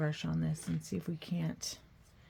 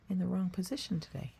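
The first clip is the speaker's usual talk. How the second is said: whisper; 3 dB quieter than usual. Real, not acted. Aside to the viewers.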